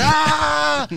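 long, high "ah" of pain; mock pain cry. Hand stepped on in retelling, high pain cry. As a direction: cry out high, acting hurt.

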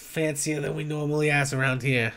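northeastern US barkeep, unimpressed; northeastern US accent. Acted. Bartender answers the fancy stranger, northeastern US accent. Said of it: "have the exact same accent".

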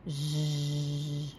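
soft, quiet snore; snoring. A narrator's reading. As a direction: drift off into a little snore. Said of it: "too busy sleeping".

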